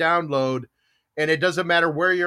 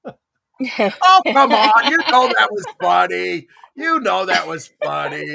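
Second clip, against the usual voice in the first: excited pleading; 5 semitones higher, 8 dB louder, slower than usual. Real, not acted. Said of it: "coaxing laughter from quiet room".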